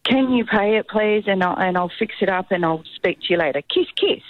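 mock-sweet scam text pleading for money; pushy scammer. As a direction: rush the mum into paying, sweetly. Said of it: "she's like".

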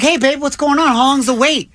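light, high-pitched imitation of wife; lightly voiced unbothered wife; calm wife impression. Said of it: "Jenna is so calm".

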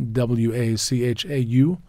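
W A C H A U read slowly letter by letter; slow spelling of W A C H A U; spelled out. Shown as a demonstration. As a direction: spell W A C H A U for the listener. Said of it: "Look for wines from the Wachau".

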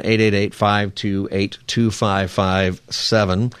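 slow it right down so callers can write it; slow, careful number read. Shown as a demonstration. Radio host repeating the call-in number for listeners, slow and deliberate. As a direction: spell the phone number out slowly digit by digit. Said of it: "is the number if you wanna give us a call".

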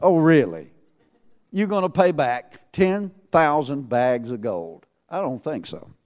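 dry mock "oh really", scoffing; sarcastic disbelief. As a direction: scoff at the servant's promise. Mocks the servant's promise.

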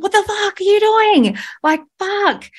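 high panicked swearing at her son; retold scream. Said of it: "I screamed in that moment".

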